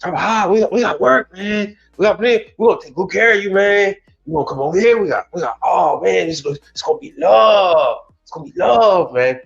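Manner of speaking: high, eager recruiting pitch; recruiter pitch. Retold or imitated. Coworker luring a Hispanic tradesman, high eager pitch. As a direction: sweet-talk him to jump ship. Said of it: "They're gonna say".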